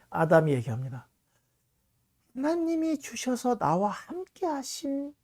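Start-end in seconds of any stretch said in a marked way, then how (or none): 2.3-5.1 much higher, slow, evasive whine; a guilty man shifting the blame; Adam's excuse. Acted. Adam excuses himself to God.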